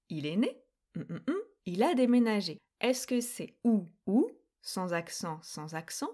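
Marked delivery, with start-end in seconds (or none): 1.0-1.4 three low placeholder hums; hummed blank. Shown as a demonstration. Teacher marks the second gap for learners, low hums. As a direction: hum where the word is missing.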